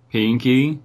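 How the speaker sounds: a touch of tearful pleading; choked out. A narrator's reading. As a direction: choke out the name as a small plea. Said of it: "she choked out".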